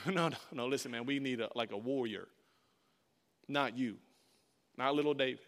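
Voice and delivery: low, soft, dismissive king; condescending refusal. Acted. King Saul turning down little David, condescending. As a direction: let him down with a little chuckle, pitched low.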